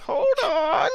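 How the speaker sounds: high yelled call to halt; dwarf yelling. Acted. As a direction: shout a halt like a gate guard. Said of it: "that dwarf back there go, yells".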